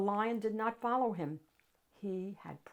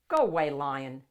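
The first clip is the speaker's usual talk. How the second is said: firm call; 3 semitones lower, 8 dB louder than usual. Acted. Librarian shooing lion away.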